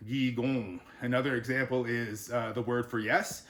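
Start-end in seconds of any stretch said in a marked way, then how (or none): 0.1-0.8 GIGON with a nasalized final vowel; Gigon, NH making the O nasal; nasal ending. Shown as a demonstration. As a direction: let the end of Gigon go into the nose. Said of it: "makes it nasally".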